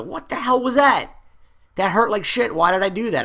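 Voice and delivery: like you just burned your finger; half-hearted outraged yell; mock outraged complaint. Burned student complains, yelling.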